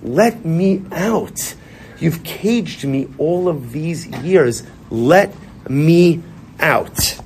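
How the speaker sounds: a slow, drawn-out plea from a caged soul; pleading soul. Retold or imitated. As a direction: stretch each word like a soul begging to be freed. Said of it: "your neshama is saying".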